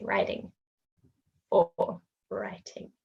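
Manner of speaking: "writing" as wriding, soft flapped t; American flap. Shown as a demonstration. Teacher contrasting American writing. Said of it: "Americans would say".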